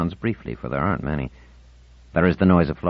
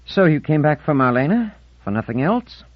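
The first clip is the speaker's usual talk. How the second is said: harsh, steely; 9 semitones higher, 3 dB louder than usual. A narrator's reading. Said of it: "harsh, steely".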